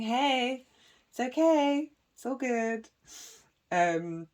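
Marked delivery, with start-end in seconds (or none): 0.0-2.9 higher-pitched, light reassurance; winking moon. Acted. The moon winking at her, playful reassurance. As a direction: toss it off like a friendly wink. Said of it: "she's just winking at me".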